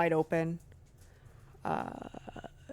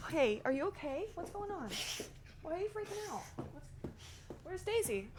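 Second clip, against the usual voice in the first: much softer, worried voice to dog; hushed worried talk; 4 semitones higher, 12 dB quieter than usual. Real, not acted. Owner quietly checking on her panicking dog, hushed.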